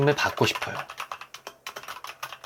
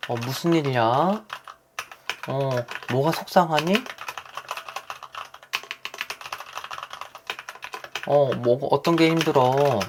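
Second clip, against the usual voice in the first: gentle caring parent; 3 semitones higher, slower than usual. Retold or imitated. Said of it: "다 요렇게 표현하실 것 같아요".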